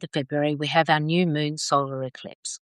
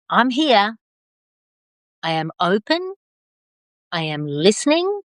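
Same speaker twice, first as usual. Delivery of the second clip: daily affirmation; 4 semitones higher than usual. Shown as a demonstration. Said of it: "you're gonna say".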